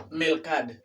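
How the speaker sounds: "mercad" said as "melcad", final o dropped; "mercad" as "melcad", no last vowel; clipped learner's error. Retold or imitated. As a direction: imitate the mistake, "mercad" with L for R. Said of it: "pero no se dice".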